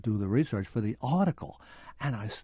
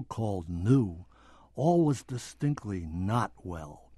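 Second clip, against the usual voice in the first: measured audiobook narration; book reading. Acted. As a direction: read it like a history audiobook. Author reading from his book.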